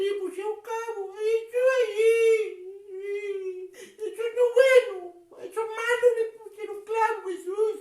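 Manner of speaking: play-cry through the words, stretching them out; acted sadness. Clown grieving to children over the nails, mock crying. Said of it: "tú estás triste".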